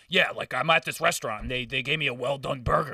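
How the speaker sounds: imitating a customer complaining for all to hear; retold loud griping on a call; mock loud phone talker. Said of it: "being loud, too".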